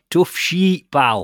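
Lancashire-accented speech. Joking about how a company name sounds, Lancashire accent. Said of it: "especially in a Lancashire accent".

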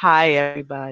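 glum, downcast voice. Greeting everyone once they can finally hear her, in a gloomy mopey voice. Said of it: "Why she sound like Eeyore?".

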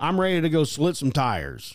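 ordinary delivery

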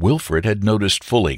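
plain reading voice

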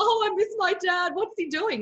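tearful, sobbing, high, weepy crying voice. Retelling what a client says: imitating someone crying. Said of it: "you'll have a client crying going".

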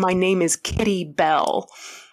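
ordinary delivery

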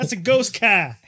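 put-on Boston accent. Riffing on a guy named Larry who pops up, in a Boston accent. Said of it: "Like some guy from Boston".

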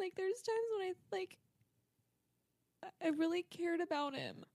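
in tears. Talking about someone they once really cared about: crying. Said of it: "you're actually crying".

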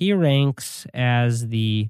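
talking very slow, stalling delivery. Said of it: "I'm talking a little slow".

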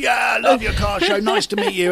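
high, loud screaming. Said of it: "this guy's literally screaming at me".

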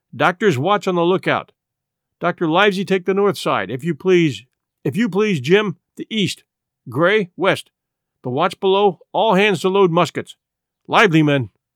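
ordinary delivery

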